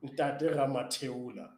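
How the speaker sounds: slow, careful "Ntate Ramatheola"; name repeated clearly. Shown as a demonstration. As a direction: say "Ntate Ramatheola" slowly so listeners can catch it. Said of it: "could you give his name once again".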